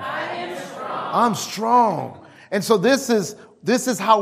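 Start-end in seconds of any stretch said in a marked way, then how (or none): 0.0-2.3 strong shout. Shown as a demonstration. Preacher leads congregation in declaring strength, shouted. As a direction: shout it like you mean it. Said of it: "Say it like you are strong".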